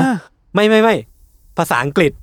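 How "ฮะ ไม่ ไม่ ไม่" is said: high, loud rush of no no no; startled denial. Real, not acted. Correcting a co-host's misheard channel name, startled and much louder. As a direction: cut them off in surprise, much higher and louder.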